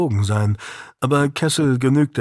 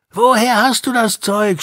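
higher, louder gang shout retold by Joey; shouted demand; 10 semitones higher, 4 dB louder than usual. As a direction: yell it as the thugs did. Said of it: "schrien sie".

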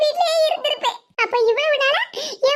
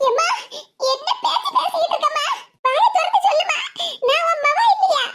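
pleading; 5 semitones higher than usual. Acted. Daughter pleading with her mother.

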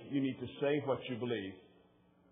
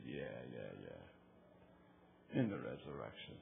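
Martha; 14 semitones lower, 10 dB quieter, slower than usual. Retold or imitated. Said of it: "She said".

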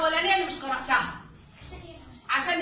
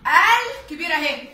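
slow emphasis; 5 dB louder, slower than usual. Shown as a demonstration. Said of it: "هنكبرها قوي قوي".

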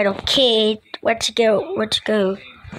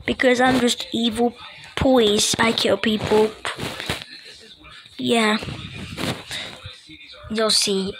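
quiet, menacing villain voice; evil voice; 4 dB quieter than usual. Pretend. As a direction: play it like a creepy villain. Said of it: "You're not even evil".

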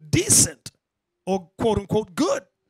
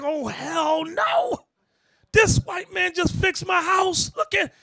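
indignant; 10 semitones higher, slower than usual. Retold or imitated. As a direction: throw it back defensively. Imitating defensive makeover recipients.

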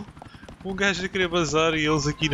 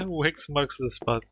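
laughing; 3 dB quieter, slower than usual. Real, not acted. Laughing at game line.

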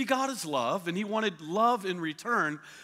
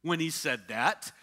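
doubting serpent; 3 semitones higher than usual. Retold or imitated. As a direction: plant doubt with each word. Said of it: "he questions the word of God".

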